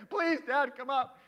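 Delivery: a touch of put-on angst; imitated anxious pleading. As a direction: beg Dad like a scared kid.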